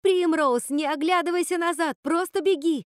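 high, loud desperate call to run; отчаянный крик. Acted. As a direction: yell at your sister to run. Кричит сестре бежать от вихря. (отчаянно, громко и высоко кричит сестре)

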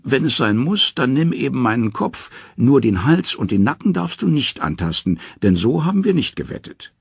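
high triumphant trickster call; cheekily spring the loophole; sly Loki. Acted. Loki cries out his clever loophole to the dwarf, high and sly.

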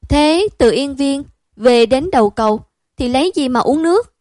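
put-on high, loud boy's protest; eager child friend. Boy insists to his friend, high and loud.

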